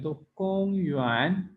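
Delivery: कोंग level, युआन slides upward, slowly; first then rising tone. Shown as a demonstration. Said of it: "कम से शुरू होके ऊपर की तरफ आती है".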